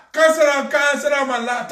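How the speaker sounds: loud call to sit down; cheerful shouted invitation. Real, not acted. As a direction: beckon loudly across the room. Calling someone over.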